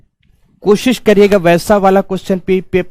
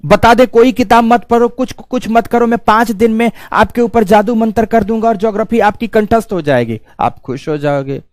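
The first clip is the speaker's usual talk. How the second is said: higher-pitched sarcastic patter; mock promise; 5 semitones higher than usual. Teacher mocking easy promises to students, sarcastic. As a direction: rattle off a hollow sales promise on a high, even pitch.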